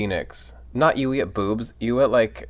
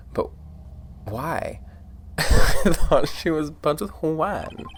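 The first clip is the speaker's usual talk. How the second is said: higher nasally voice; 7 semitones higher, 4 dB louder, slower than usual. Acted. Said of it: "that really higher nasally voice".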